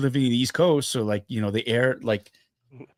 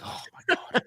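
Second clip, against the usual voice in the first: breathy whisper; whispered despair; 6 dB quieter than usual. Retold or imitated. His own despair at his wife's reaction.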